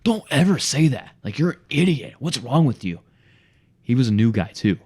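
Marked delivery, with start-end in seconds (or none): 0.0-3.0 mock scolding coworker. New coworker scolding salesman over recording, high mock scold. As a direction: imitate a new guy berating you. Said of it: "this one guy's like".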